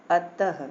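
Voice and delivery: अतः finished with an audible ह; breathed ha ending. Shown as a demonstration. Teacher repeats visarga example, अतः with final ha. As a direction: let अतः end on a puff of ह. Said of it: "हा निकला ना".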